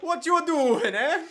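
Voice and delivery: put-on high, cranky old man; grumpy old man voice. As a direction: shout like a grumpy caretaker. Caretaker yelling at kids.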